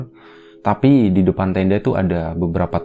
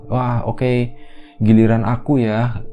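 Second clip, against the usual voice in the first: slightly higher, playful self-talk; girl playing alone; 3 semitones higher, slower than usual. Dela heard playing alone in the tent, lightly voiced self-talk. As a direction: lightly imitate a girl chatting to herself in a game. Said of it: "kayak gitu suaranya".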